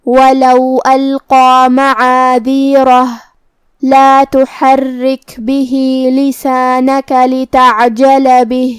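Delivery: slow, measured tajweed chant; Quran recitation. Shown as a demonstration. Teacher recites the verses slowly for students. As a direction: recite slowly, each letter clear. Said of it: "recites verses in tajweed".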